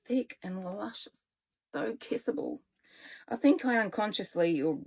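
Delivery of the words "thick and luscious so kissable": whispered. A narrator's reading. Dreamy aside about his lips.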